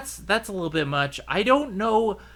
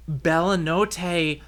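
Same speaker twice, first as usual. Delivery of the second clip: whispered Italian; much slower than usual. Retold or imitated. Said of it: "thick Italian accent".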